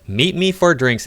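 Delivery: high, slow mocking of his text; mock male quote. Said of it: "He said".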